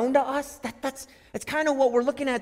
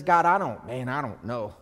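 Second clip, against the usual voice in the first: low, soft, faltering prayer; quiet unsure resignation; hesitant surrender; 9 semitones lower, 4 dB quieter than usual. Retold or imitated. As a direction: trail off to a whisper on perish. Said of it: "I can be the person that says".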